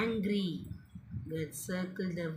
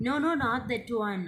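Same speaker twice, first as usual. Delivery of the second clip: quick, higher, mildly protesting story voice; insistent refusal; 4 semitones higher, faster than usual. Acted. Same refusal, acted again.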